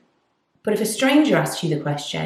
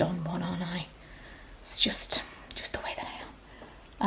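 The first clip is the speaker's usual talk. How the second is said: whisper; 15 dB quieter, slower than usual. Real, not acted. Self-deprecating aside to camera.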